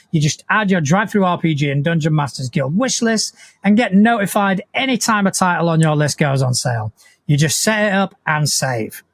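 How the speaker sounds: steady, practised promo delivery; sponsor read. Real, not acted. Host plugging tonight's partners, scripted ad read. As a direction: read it out as a podcast ad.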